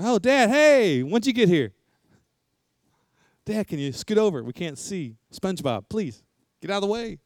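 a hint of a child shooing dad away from the TV; mock kid glued to SpongeBob; kids' voice. Preacher voices his kids at TV.

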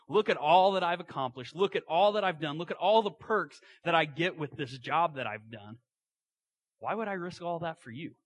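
loud, boastful emphasis easing off; a hint of pride. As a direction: list your achievements with some pride, punching them. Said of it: "there's a hint of pride".

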